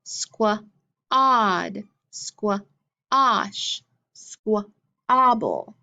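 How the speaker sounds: Squad, squash, squabble with a drawn-out ah; slow the middle ah down; stretched ah in the middle. Shown as a demonstration. Teacher modeling words for class to echo, ah drawn out. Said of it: "What did you hear?".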